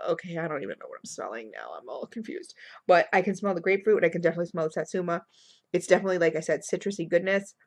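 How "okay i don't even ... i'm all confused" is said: confused. Retold or imitated. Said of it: "I'm like".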